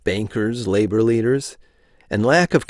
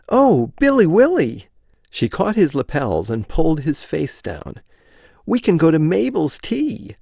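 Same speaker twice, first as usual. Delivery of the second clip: eager wife voice; 5 semitones higher than usual. Acted.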